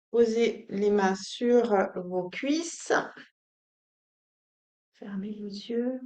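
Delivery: calm, unhurried instructions with long pauses; soothing yoga-teacher guidance; guided meditation. Acted. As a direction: settle them gently into stillness.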